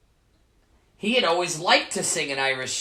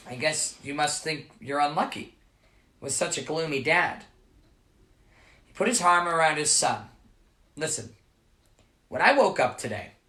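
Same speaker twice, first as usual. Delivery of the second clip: reassuring father. Acted. Father comforts his son.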